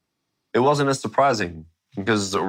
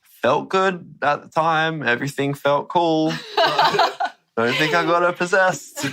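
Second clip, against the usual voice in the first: higher, laughing through a carefree brush-off; 10 semitones higher than usual. Retold or imitated. Telling mum the healing felt fine, laughing. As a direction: laugh it off like a teen who sees no harm. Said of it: "I was like".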